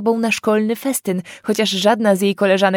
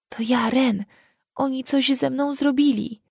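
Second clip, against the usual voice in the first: put-on girl's voice; 6 semitones higher than usual. Girl begs frightened parents.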